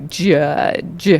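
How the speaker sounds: "Judge" with a hard D-G onset, drawn out; deliberate, stretched "Judge"; judge with D-G sound. Shown as a demonstration. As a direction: sound out "Judge" slowly, hard J at both ends. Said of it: "almost a D G in the beginning".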